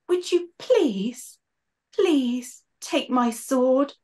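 slow, breathy-edged dying request; slow, high, fading plea of a wounded knight; slow gasping plea. Acted. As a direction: drag out each word as if short of air.

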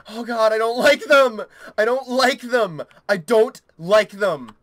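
loud, whining dread; distressed. Real, not acted. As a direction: protest with mounting dread. Recoils from game creatures.

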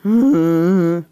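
loud, drawn-out hum; long evasive hum from bed; Pete's grunt. A narrator's reading.

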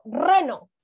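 RENO opening on a long rolled R; strong R. Shown as a demonstration. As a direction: trill hard at the start of reno. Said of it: "o suena fuerte".

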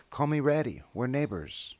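high, loud, cheery rat voice; cheery Ratty. Acted. Ratty telling Mouse about his doorway, high and cheery. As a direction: bounce it out like a busy pack rat.

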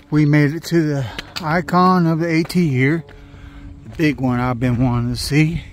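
excited arrival. Real, not acted. Hiker reaching the summit he longed to see, excited. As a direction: announce it like a dream come true.

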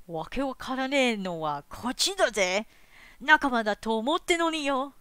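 toned-down game character voice; Cypher voice. Acted. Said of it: "Kind of this pitch?".

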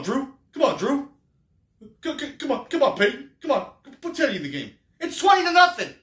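high, loud Cajun fan voice, pleading at the TV; Cajun accent. Retold or imitated. Imitating the Saints fan behind him, high loud Cajun accent. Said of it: "He's got that Cajun accent".

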